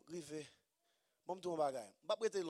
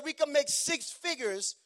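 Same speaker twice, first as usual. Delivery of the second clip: eager pitch; 4 semitones higher, 6 dB louder than usual. Retold or imitated. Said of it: "He said".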